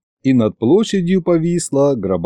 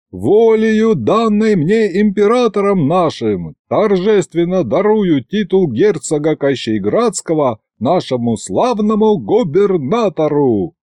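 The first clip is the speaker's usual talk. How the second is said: high-pitched ceremonial announcement; solemn proclamation; 4 semitones higher than usual. Acted. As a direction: proclaim a title to a crowd. Торжественно объявляет герцогский титул. (торжественное провозглашение)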